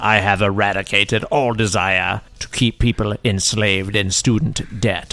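lordly wish-granter voice; genie. Acted.

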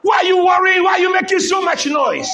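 acted indignant scolding; retold crowd scolding. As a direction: imitate bystanders telling someone off. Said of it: "they were telling the blind man".

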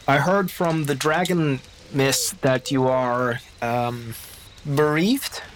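slow, halting and careful; gentle condolence. Acted. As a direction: feel for each word of sympathy. GM voices Baptiste's slow condolence.

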